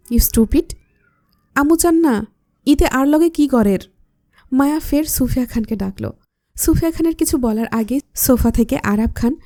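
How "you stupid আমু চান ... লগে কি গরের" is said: mild scolding snap in Chittagonian. Acted. Hrid scolds his wife, mildly scolding. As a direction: tell her off, half-hearted. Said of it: "ধমকের সুরে বলল".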